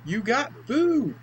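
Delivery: mock high voice. Mocking the game's character.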